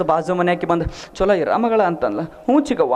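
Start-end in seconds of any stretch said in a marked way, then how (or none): 1.1-1.8 swooping, lightly put-on tearful goodbye; mock tearful farewell. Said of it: "ಬಾಜು ಮನೆಯವ್ರು ಅಳಲೇಬೇಕು". 2.2-2.9 higher, falling, weepy acknowledgement; put-on tearful yes; mock tearful reply. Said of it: "ಬಾಜು ಮನೆಯವ್ರು ಅಳಲೇಬೇಕು".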